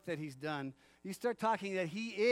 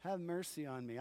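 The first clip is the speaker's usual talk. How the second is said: soft echo; 3 semitones lower, 6 dB quieter than usual. Shown as a demonstration. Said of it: "repeated softly after the shout".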